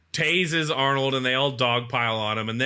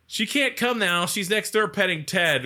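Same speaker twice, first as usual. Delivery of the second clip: put-on kid voice; 6 semitones higher than usual. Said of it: "And he's like".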